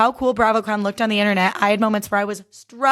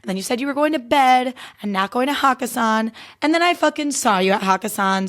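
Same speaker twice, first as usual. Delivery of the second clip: mock accusation. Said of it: "He comes up to my table and I was like".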